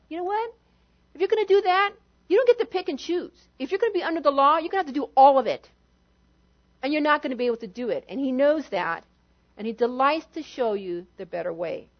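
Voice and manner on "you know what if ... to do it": fervent rebuttal. Real, not acted. Preacher firing back at legalists, fast and heated. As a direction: rattle it off, driving it home. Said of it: "preacher rebutting at speed".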